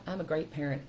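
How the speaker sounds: soft, steady reassurance to yourself; calm, kind inner voice; encouraging self-talk. Shown as a demonstration. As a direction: talk yourself back up, gently. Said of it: "You can go, "No, you know what?".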